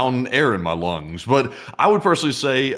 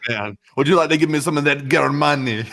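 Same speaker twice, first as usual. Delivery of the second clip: mock hungry; 4 semitones higher than usual. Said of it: "you actually said it just like a Russian would".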